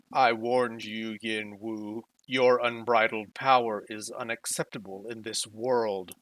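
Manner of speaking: deep, machine-like, mechanical robotic delivery. Voicing a villain descending from the sky, warning a rival: deep mechanical voice. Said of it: "a deep, mechanical voice".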